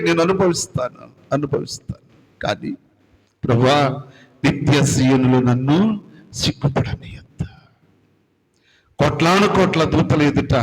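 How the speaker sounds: penitent prayer that builds and sinks to a hush; pleading prayer. Acted. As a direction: beg the Lord for mercy, fading out at the end.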